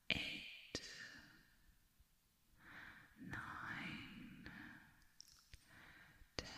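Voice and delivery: counting down into a soft whisper; fading to a whisper. Acted. Countdown fading into a whisper for the human. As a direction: let the numbers dissolve.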